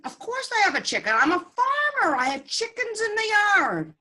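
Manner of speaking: high, fast, loud disbelief; incredulous farmer. Acted. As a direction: blurt it out, as if the question is silly. Farmer answers rabbi, amazed.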